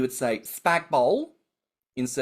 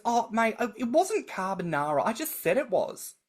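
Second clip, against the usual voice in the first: mother's retort; 9 semitones higher than usual. Retold or imitated. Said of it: "And she goes".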